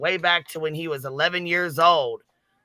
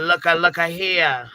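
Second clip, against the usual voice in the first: slow, drawn-out Look a, look a here; a light Macho Man drawl on look a; Randy Savage impression; slower than usual. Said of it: "as Savage would say".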